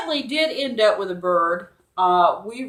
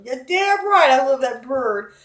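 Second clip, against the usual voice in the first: emphatic yes; 5 semitones higher, 6 dB louder than usual. Retold or imitated. Emphatic answer about her bird.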